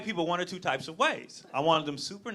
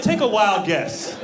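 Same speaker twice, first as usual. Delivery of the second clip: slow and louder, dry sarcastic comeback with a laugh; 4 semitones higher, 9 dB louder, much slower than usual. Retold or imitated. Dad answering the team mom, slow sarcastic retort. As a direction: drag it out, deadpan. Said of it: "I'm like".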